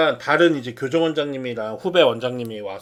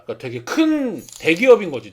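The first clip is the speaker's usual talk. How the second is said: ordinary talk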